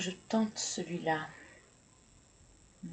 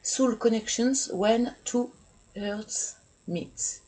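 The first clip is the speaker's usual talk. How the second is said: louder, slow English with a French accent; 6 semitones higher, 6 dB louder, slower than usual. Real, not acted. Tarot reader reading a card title to viewers, French-accented English. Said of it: "Pardon pour mon anglais".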